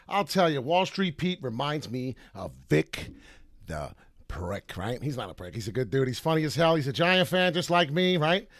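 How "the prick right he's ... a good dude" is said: usual speaking voice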